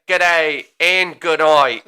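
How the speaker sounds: a hammed-up Aussie greeting, drawn out slowly; mock Australian ghost. Cohost voicing the mooning ghost in mock Australian accent. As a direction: stretch it like a cheeky ghost. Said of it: "He's like".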